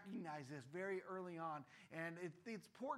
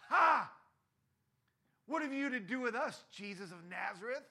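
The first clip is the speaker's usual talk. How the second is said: shouted, much louder and higher; loud demon cry; 4 semitones higher, 9 dB louder than usual. A narrator's reading. Possessed man shouting at Jesus in the synagogue, loud. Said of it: "he cried out with a loud voice".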